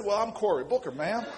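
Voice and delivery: hammed-up movie cowboy imitation; John Wayne. Young law student introducing himself to tenant president, cowboy imitation. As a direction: put on a swaggering cowboy voice for comic effect. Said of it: "in my best John Wayne imitation".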